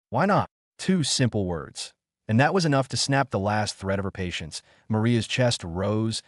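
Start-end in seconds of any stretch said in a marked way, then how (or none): 0.1-0.5 plain confusion. A narrator's reading. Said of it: "no bite, no defense, only plain confusion".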